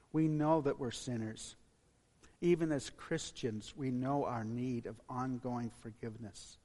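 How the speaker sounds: measured prayer with long pauses. Real, not acted. Pastor leads congregation in closing prayer, measured and reverent. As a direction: address God reverently, leaving space between phrases.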